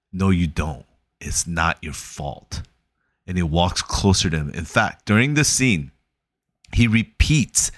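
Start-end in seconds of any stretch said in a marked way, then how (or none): 0.1-2.6 soft insistence. Retold or imitated. Therapist insisting softly to Will.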